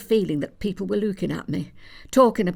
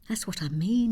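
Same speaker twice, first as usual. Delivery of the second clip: whisper; 2 semitones higher than usual. Acted. Knowing aside to mother.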